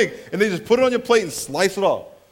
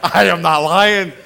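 emphatic insistence; 9 dB louder, slower than usual. Real, not acted. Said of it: "insisting to the congregation".

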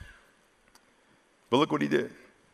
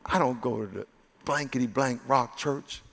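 low, put-on gruff denial; cursing denial; 7 semitones lower, 9 dB quieter than usual. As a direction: growl it out like a cornered man swearing. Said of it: "he began to curse".

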